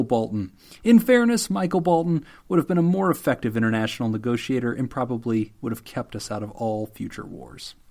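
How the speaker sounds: formal letter read aloud; deadpan, formally delivered apology; mock apology letter. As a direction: read it like an official statement of apology.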